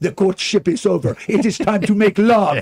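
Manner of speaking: loud high cartoon skunk voice. Quoting a cartoon skunk's line: Pepe Le Pew voice. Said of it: "He's like".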